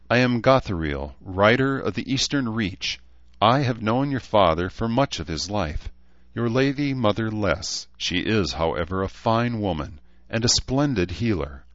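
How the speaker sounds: lightly voiced gracious elf lord; a touch of formal, lifted courtesy; courtly elf. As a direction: greet an old family with measured honour.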